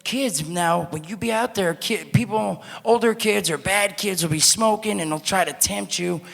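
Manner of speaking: high, hammed-up lecturing mascot voice; mock school mascot warning kids; preachy mascot. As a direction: warn the kids like a corny school-assembly act. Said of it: "He'd be like".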